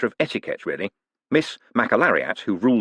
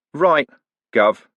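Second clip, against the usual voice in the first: thug voice; 6 semitones higher, 5 dB louder than usual. Acted. Thug answering in story.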